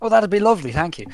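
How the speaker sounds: acted abrupt switch to sweet politeness; suddenly pleasant. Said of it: "Demeanor changes entirely".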